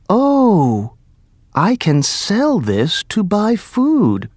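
high, slow mother's thought; voiced mother. A narrator's reading. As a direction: muse hopefully to herself.

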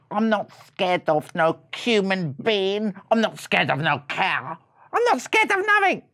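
a hint of a swaggering little mouse; cocky little brother. Little mouse listing what he's not scared of, cocky.

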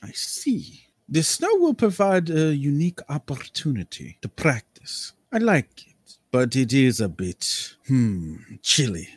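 theatrical, drawn-out aristocrat; eccentric nobleman voice. Acted. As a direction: savour every word like a flamboyant lord. GM plays Lord Cambria.

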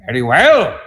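brief mock yell; imitated yelling dad. Son imitating his dad who would yell a lot, mock yell. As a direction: imitate a father's booming outburst. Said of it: "I could imitate him yelling".

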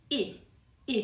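"อิ" as a lone "ee" vowel, said twice; vowel sound demo. Shown as a demonstration. Teacher introducing the first chart box, "อิ" pronounced as an isolated vowel. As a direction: model the vowel "อิ" on its own. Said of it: "เป็นเสียงอิ".

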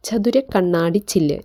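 slow, careful reading of ചതുര കണ്ണാടി ചില്ല്; slow dictation. Shown as a demonstration. Teacher reads the meaning slowly so students can write it. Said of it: "pain എന്ന് വെച്ചാൽ".

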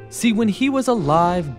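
plain reading voice

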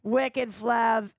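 put-on Boston accent. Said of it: "Boston shout out".

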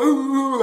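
high imitated crying "ooh"; high mock whimper; mock crying wail. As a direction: imitate a grown man crying. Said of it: "he sitting here crying".

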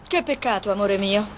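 mock regret, teasing; sarcastic sweet tone; ironic. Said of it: "e neanche la tua ironia".

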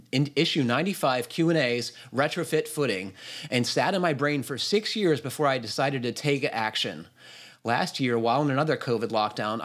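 steady read-aloud voice; reading a listener's email. Acted. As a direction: read the letter out in full, evenly paced.

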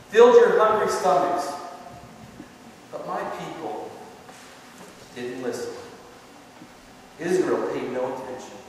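lightly voiced God, pleading then stern. Preacher voicing God to his people, pleading and stern. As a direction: speak as God calling his people back. God's voice in the psalm.

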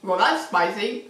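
dry, sarcastic understatement. Acted. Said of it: "Oh, sorry, I'm being sarcastic".

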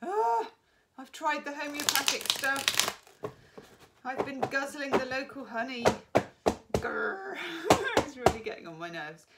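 hoarse, gravelly from hay fever; rough throat from hay fever. Real, not acted. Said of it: "if I sound a bit gravelly".

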